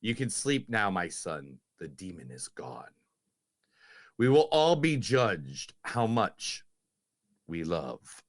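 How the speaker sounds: low, slow solemn quote reading; slow solemn priest. Acted. Host quoting the exorcist to his cohost, solemn. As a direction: speak like a grave old priest.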